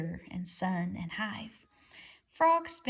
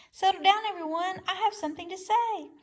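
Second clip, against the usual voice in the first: high owl voice hooting to a crowd; 8 semitones higher than usual. A narrator's reading. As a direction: call the crowd to order like an owl. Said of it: "Swooper the owl hooted to the crowd".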